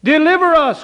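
loud desperate plea; crying out. Acted. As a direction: call it out to heaven. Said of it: "cried Israel".

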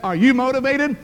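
mock drill sergeant shout; drill sergeant yell. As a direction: demand it like a DI in his face. Drill sergeant questioning the recruit.

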